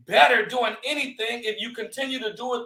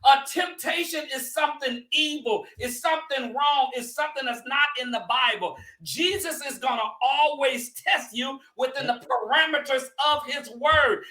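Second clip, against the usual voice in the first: preaching; 3 semitones higher than usual. Acted. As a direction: teach the congregation with full preacher force. I ain't trying to preach.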